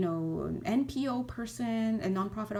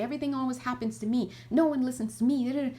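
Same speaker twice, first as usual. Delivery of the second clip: mock self-pitying whine, quick and higher; whiny victim; 4 semitones higher, faster than usual. Healer mocking the victim mindset, quick self-pitying whine. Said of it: "Victim energy".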